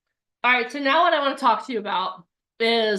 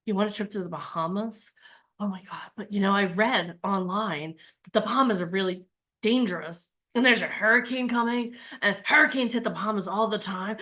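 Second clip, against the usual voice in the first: mock fearful. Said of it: "that fear comes in".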